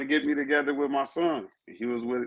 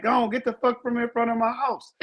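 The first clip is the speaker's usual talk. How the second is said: imitating angry woman; 9 semitones higher than usual. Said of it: "wake up to a motherfucker like".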